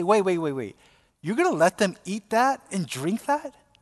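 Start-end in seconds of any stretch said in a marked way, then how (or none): none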